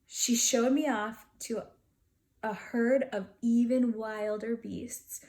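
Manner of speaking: indignant beast storytelling; hammed-up grumpy narration; story narration. A narrator's reading. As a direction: tell it like an outraged little beast. Beast narrates part two.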